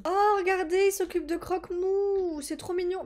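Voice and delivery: high, drawn-out cooing; melting, high-pitched adoration; gushing over cuteness. Real, not acted. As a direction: coo as if at an adorable pet. Gushing over a cute pet.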